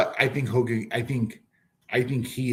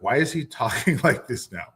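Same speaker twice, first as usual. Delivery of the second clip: whispered laughing disbelief. Retold or imitated. Retelling own baffled reaction.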